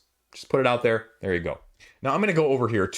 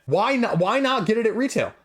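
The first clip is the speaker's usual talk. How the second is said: boiled over; 6 semitones higher than usual. Real, not acted. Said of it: "I'm very boiled over about this".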